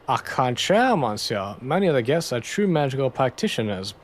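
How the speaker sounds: hammed-up French accent, au contraire. Toussaint argues about the seance guests, hammed-up French accent. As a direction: play the haughty French debunker. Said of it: "My French accent is absolutely".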